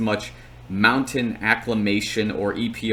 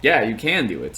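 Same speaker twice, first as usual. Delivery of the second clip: retold encouragement. Runner answering his pacing partner, mild encouragement. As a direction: back him up, casually retold.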